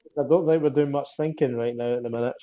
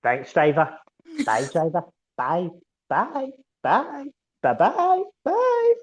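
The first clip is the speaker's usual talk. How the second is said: Scottish "Bye, driver", rising higher and louder; Scottish meme impression; 12 semitones higher, 5 dB louder, slower than usual. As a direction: wave off the driver in a Scots voice, climbing up. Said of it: "so much better with your accent".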